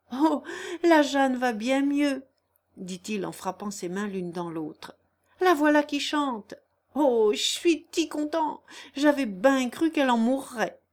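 put-on boy rushing in with happy news; joyful, laughing. A narrator's reading. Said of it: "vint à sa rencontre en riant".

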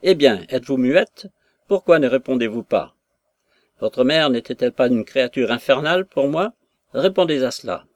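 loud, indignant father demanding an answer; furious father shouting at his mute daughter; angry outcry. Acted. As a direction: bark it at a silent daughter. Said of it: "il s'écria".

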